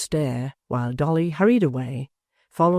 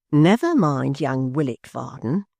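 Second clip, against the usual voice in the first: frowning wife; 3 dB louder than usual. A narrator's reading.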